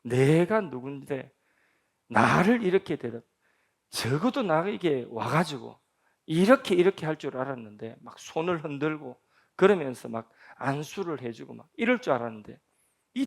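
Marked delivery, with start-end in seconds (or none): 0.0-8.0 offended general. Retold or imitated. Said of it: "열받아가지고".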